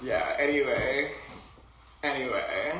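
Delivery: put-on Wisconsin accent. Shown as a demonstration. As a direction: stretch it out slowly with a Wisconsin accent. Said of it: "It sounds Wisconsin".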